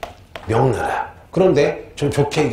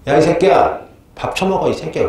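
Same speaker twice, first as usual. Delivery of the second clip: lightly acted rude scolding, pitched up at first; imitated cursing; 4 semitones higher than usual. Servant girl ordering the deposed king to eat, mock cursing. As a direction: curse at him like a brusque servant. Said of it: "욕을 한대".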